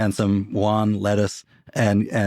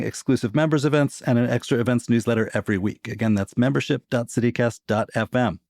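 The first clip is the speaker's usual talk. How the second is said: promo read. Acted. Host reads the membership plug.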